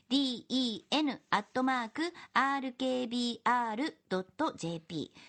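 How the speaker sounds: dictating letter by letter. Acted. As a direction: dictate each letter for note-taking. メモしてくださいね.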